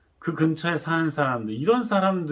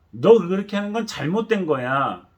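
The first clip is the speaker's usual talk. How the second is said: annoyed, snappish scolding; irritated rebuke; 3 semitones higher, 4 dB louder than usual. Retold or imitated. Crowd rebuking the beggar, mildly irritated. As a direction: snap at him in irritation. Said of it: "신경질적으로 화를 내면서".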